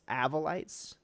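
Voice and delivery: "Avolites" as AV-uh-lites, rising question; short-a pronunciation. Shown as a demonstration. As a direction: test out "Avolites" with AV as in "have". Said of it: "four different ways that you can".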